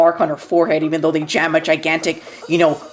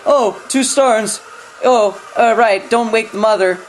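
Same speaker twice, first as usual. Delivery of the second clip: slow, higher, spaced-out mock voice; mock dumb heroine; 3 semitones higher, slower than usual. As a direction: play her as a clueless airhead, drawn out. Mocking Baby Doll's dumb move.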